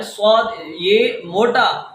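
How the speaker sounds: صاد said heavy and full, slow; heavy sound. Shown as a demonstration. Teacher shows the heavy letter to students, slow and full. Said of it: "بھاری آواز کے اندر پڑھنا ہوتا ہے".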